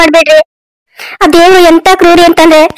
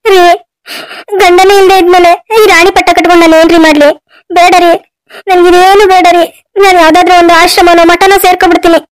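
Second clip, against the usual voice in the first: tearful pleading. Acted. Wife pleads with dying husband.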